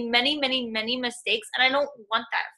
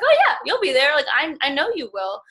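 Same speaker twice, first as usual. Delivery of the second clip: sure, enthusiastic reply; 3 semitones higher, 5 dB louder than usual. Retold or imitated. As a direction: burst out with total belief. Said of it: "I was like".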